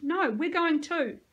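high, loud, drawn-out protest; indignant narrated outcry; screeched. A narrator's reading. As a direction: insist loudly, slowing for weight. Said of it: "I screeched".

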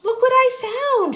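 very high storybook hen; little red hen. A narrator's reading. Hen shows her find to the friends, high voice. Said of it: "she said to the friends".

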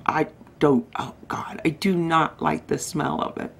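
whispered disgust. Real, not acted. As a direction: recoil from the smell. Disgust at serum smell.

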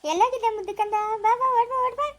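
affectionate, eager beckoning; fond calling out. Acted. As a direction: coax a small grandchild to come running. Elder calls grandchild over.

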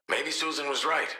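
soft, hesitant admission; subdued confession. Acted. Father confiding doubts to Shark, subdued and hesitant. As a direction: open up quietly, with halting pauses.

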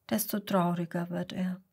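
soft, breathy whisper; whispered sad narration. A narrator's reading. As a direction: hush it sadly. Sad narration about Mats.

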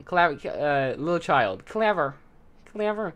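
high, loud, mocking villain; sinister flower voice. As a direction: sneer at the clever child. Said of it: "He's like".

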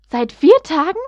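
high and loud, stress on vier, rising; shocked cry. A narrator's reading. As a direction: cry out the repeat in disbelief. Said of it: "rief Professor McGonagall".

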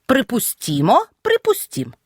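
«Припустімо», «припустім» stressed on the і after т; stress on -ІМО, -ІМ. Shown as a demonstration. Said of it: "під наголосом". («Припустімо», «припустім» з наголосом на «і» після «т»)

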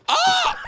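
high shriek that breaks into a laugh; shriek into laughter. Real, not acted. Gamer shrieks at the screen, then laughs. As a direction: yelp then burst out laughing.

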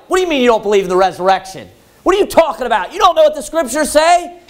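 quick, incredulous challenge rising in pitch; imitating a heated squabble; mock indignant retort. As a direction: argue back like an offended opponent, lightly acted. Acted argument between the two groups.

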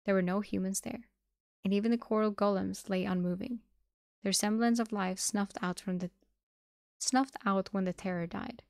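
ordinary delivery

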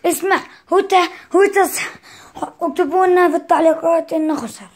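loud flustered protest; stammering, then loudly arguing the point; exasperated mom scolding. Real, not acted. Protesting that the opponent lost.

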